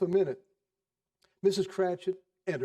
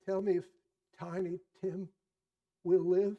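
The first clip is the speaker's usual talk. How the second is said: eager Scrooge; 3 semitones higher than usual. Acted. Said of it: "said Scrooge with an interest".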